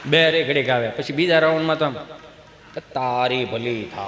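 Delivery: low, subdued man's voice; resigned husband. Acted. Husband left minding the crying child, low pleading.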